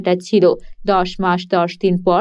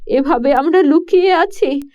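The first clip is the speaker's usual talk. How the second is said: lightly raised, pleading queen voice; worried queen; 4 semitones higher than usual. Acted. Queen confides her fears to the king at night, worried.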